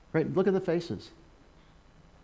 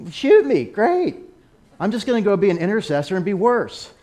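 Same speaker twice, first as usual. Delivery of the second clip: laughing; 7 semitones higher, 6 dB louder than usual. Real, not acted. Laughing at the idea of danger.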